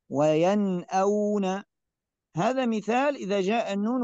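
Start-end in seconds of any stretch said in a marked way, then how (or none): 0.1-1.6 وينأون slow, nun said clearly before the hamza; clear izhar. Shown as a demonstration. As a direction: draw out وينأون with a plain nun. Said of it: "نشاهد النون مظهرة". (قراءة مرتلة بإظهار النون)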